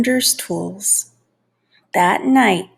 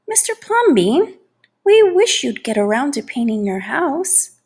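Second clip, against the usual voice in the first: "Mister Plumbean" called out high, then a polite request; a neighbor nudging him to paint; neighbor pleading; 4 semitones higher than usual. Acted. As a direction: call up to him, a little pleading.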